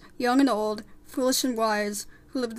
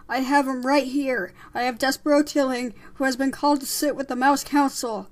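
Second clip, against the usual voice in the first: loud, slightly raised proclamation; shouted announcement; 3 semitones higher, 6 dB louder than usual. Acted. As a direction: announce it to the whole crowd. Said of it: "shouted Frollo".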